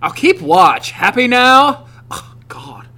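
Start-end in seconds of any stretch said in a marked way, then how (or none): 0.0-0.9 man lightly doing a sassy woman; a hint of a haughty lady; sassy girl voice. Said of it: "who's got the sassiest girl voice?". 0.9-1.9 higher, light sassy woman voice; sassy girl voice. Pretend. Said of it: "who's got the sassiest girl voice?".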